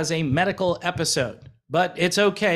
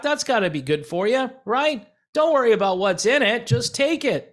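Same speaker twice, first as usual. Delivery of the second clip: sarcastic; 6 semitones higher than usual. Retold or imitated. Sarcastic pharma pitch.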